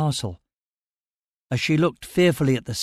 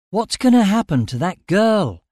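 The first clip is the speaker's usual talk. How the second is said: loud, high-pitched impatient demand; losing patience; 7 semitones higher, 5 dB louder than usual. A narrator's reading. Narrator demands news of the girl, losing patience. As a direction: demand an answer, patience running out. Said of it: "losing patience".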